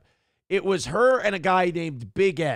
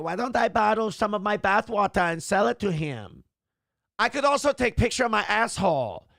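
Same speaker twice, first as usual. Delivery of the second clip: mock Asian accent; 3 semitones higher than usual. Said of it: "they sound like Asian Kevin Brennan".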